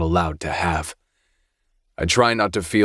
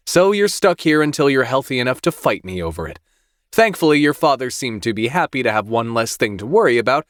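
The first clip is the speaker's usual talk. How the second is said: higher, firm brotherly scolding; younger brother voice; 6 semitones higher than usual. Acted. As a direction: lift the voice for caring Micah.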